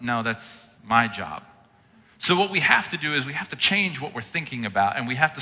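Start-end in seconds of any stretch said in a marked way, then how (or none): 0.0-1.4 slow, gentle firm no; lightly voiced divine answer; calm God reply. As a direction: reassure like a patient God. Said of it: "And God's like".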